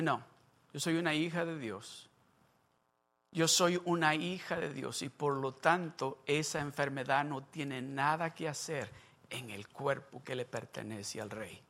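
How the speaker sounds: soft, low, quiet affirmation of faith; hablando bajito. Retold or imitated. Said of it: "empezó a hablar bajito". (diciendo bajito su fe)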